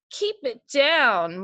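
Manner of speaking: slow, drawn out mock whine; whiny Goldilocks. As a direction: whine it like a spoiled girl woken up. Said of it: "whined Goldilocks".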